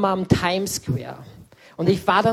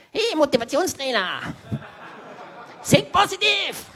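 friend's mock shout; 9 semitones higher than usual. Best friend poking him, shouting pep at him. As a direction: yell it at him like a pushy hype coach. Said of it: "kommt mein bester Freund".

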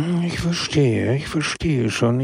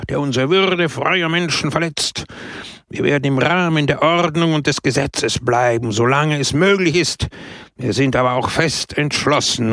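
shouting; 3 semitones higher than usual. Acted. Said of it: "schrie Pepone".

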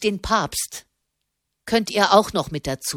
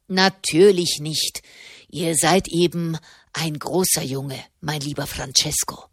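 mockingly soothing a grown man like a boy; sarcastic. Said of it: "Werdet nur nicht sarkastisch".

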